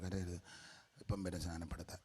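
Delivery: mock whisper soothing a crying baby; whispered hush. Preacher mocking a priest hushing a baby, whispered. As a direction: shush the infant gently under your breath.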